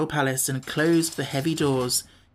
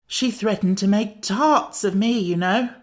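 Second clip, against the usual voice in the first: Pumpkinhead voice; 6 semitones higher than usual. A narrator's reading.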